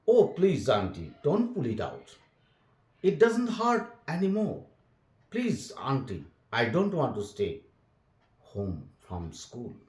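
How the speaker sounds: put-on a boy pleading with his aunt, mildly whiny. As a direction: beg Auntie not to pull the tooth.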